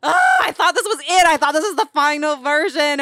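high, loud half-crying wail; mock despair. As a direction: wail like the draft was ruined. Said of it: "get so mad and fired up".

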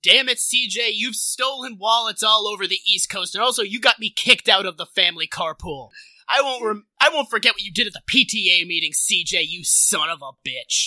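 mock angry confrontation. Mock dramatic villain confrontation.

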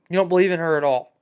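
whispered mock shock; fast scandalised whisper. Real, not acted. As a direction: hush it like a scandal.

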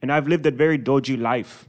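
put-on London accent; English accent. Shown as a demonstration. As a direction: tell it like a mock East Londoner. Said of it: "when I think English accent".

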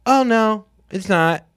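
breezy high don't-care reply; so casual. Retold or imitated. Tailor brushing off the unfinished dress, so casual. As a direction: toss it off like it's nothing. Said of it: "Like, so casual".

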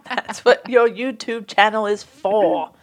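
lightly put-on British voice; horrible British accent. Reading a listener's plea for the peacock video, horrible British accent. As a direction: draw it out in a bad British accent. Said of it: "do a horrible British accent".

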